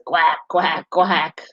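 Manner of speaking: light mock quacking; wood frog call. Teacher reading to kids, lightly quacking like a wood frog. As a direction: quack it like a duck-sounding frog. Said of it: "a wood frog says".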